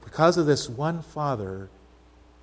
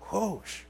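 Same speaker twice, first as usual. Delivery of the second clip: 1 mock sword whoosh; 8 semitones higher, 8 dB quieter than usual. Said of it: "Do I have your attention now".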